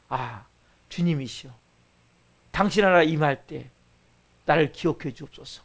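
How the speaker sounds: low, soft, halting plea; penitent robber. Retold or imitated. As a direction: imitate a dying robber humbly praying. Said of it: "이 강도가 얘기하잖아요". (낮고 조용하게 간구하는 강도 흉내)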